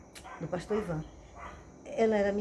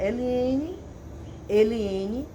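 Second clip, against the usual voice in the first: loud, firm calls with rising ends; serious fatherly tone; 2 semitones higher, 6 dB louder, much slower than usual. Retold or imitated. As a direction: imitate a correcting father calling his child. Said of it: "Aí ele falou sério".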